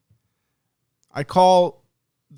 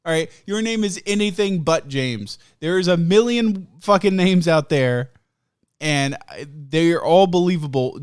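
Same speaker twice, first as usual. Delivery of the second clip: angry rant; 4 dB louder than usual. Retold or imitated. Ranting at agent over name.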